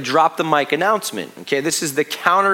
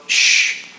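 shushing; 3 dB louder than usual. Retold or imitated. Dad hushing his daughter's questions, whispered. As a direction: hush her gently without voice. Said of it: "my first reaction was just to go".

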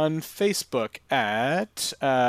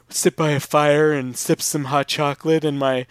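sultry woman voice. Acted. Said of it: "sultry woman voice".

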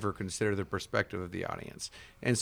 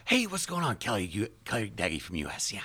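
Kelly. Retold or imitated. Singer greeting someone and introducing himself, put-on voice. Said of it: "the singer's like".

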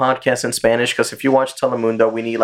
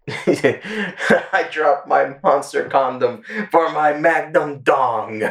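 laughing; 3 semitones higher, much slower than usual. Real, not acted. Laughing joke.

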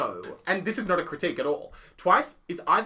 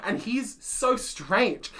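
amused aside, laughing; 8 semitones higher, 6 dB louder, slower than usual. Retold or imitated. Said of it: "you're like".

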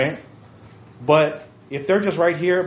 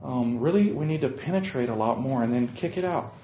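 soft, drowsy mock coach; sleepy coach; 4 semitones lower, 7 dB quieter than usual. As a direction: mumble like a half-asleep coach. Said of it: "if he's just over there".

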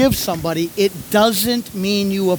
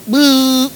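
imitated buzzer; 4 semitones higher, 5 dB louder than usual. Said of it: "I hear the clock go".

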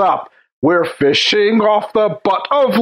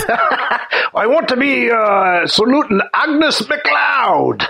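put-on Scottish accent; 3 semitones higher, much slower than usual. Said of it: "let me get my Scottish accent".

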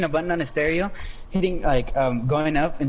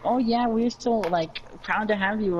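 high, softer mock-proud parent voice; imitating doting parents; 7 semitones higher, 3 dB quieter than usual. Kid imagining parents welcoming his birth, high soft gushing. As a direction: softly gush like a proud parent, pretend. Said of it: "I never heard a story with it, like".

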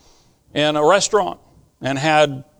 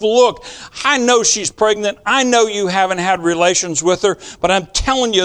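Gabriel to Joseph; 5 semitones higher than usual. Retold or imitated.

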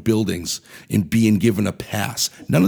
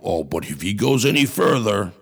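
lightly voiced mock tough-guy warning; a hint of a fake tough president; mock Joe Biden. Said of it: "he tried to act tough saying".

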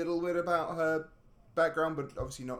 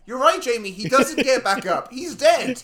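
loud, higher, laughing punchline; laughing joke; 10 semitones higher, 11 dB louder than usual. Real, not acted. Joking to Jamie about the dead man, loud and laughing. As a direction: cackle through the punchline.

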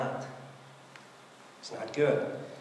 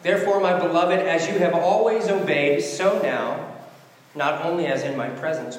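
scripture reading. Acted. Pastor reading Philippians to the church, proclaiming scripture reading. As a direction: proclaim the verse, then let it settle.

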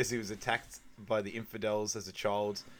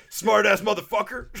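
higher, louder, breaking into laughter; quoting Chris's insult while cracking up; laughing quote; 10 semitones higher, 9 dB louder than usual. Retold or imitated. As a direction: blurt it out through laughter. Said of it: "And then Chris goes".

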